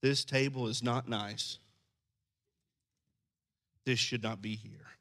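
soft and limp, politely disapproving; meek mild rebuke. Shown as a demonstration. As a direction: mildly complain about the table. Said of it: "I don't read".

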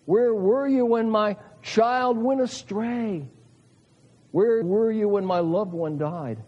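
a raw cry to God, each question pressed; anguished plea. Acted. Grieving believer crying out to God.

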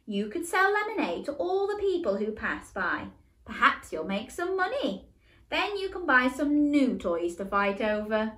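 high, bright-voiced mum with a smile; cheerful mum. Mum proposes a lemonade stand to the boys, smiling. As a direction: smile through the suggestion. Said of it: "she finished with a smile".

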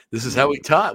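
Matt Berry voice. Retold or imitated. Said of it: "the way he talks".

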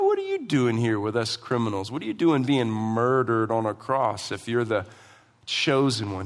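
low, understated scornful questioning; a touch of dry mockery; sarcastic. Criminal demeaning Jesus among the criminals, with understated sarcasm. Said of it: "This is sarcasm".

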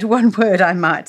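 one word I might in a light Irish lilt; Irish accent. Shown as a demonstration. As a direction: slip into a hint of Irish. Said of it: "To be sure".

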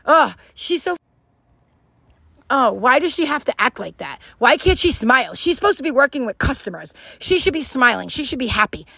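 mock exasperated complaining; put-on whiny complaint; negative person. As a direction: gripe like a negative customer. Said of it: "A negative person would be like".

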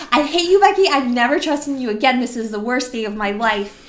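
half-joking screamed "I hate you"; mock scream. Narrator screaming at Becky atop the ride, mock fury. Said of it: "screaming again".

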